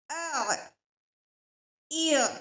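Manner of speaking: आ ई अ pressed from the mid throat with breath held; letter sounds demo. Shown as a demonstration. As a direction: show the saakin ain sounds. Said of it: "साकिन हालत में आइन की अदायगी है". (आ ई अ हलक से, सांस रोक कर)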